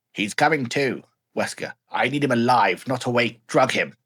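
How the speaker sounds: loud, curt orders to a henchman; commanding Birkin. Acted. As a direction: bark the orders like a cold scientist.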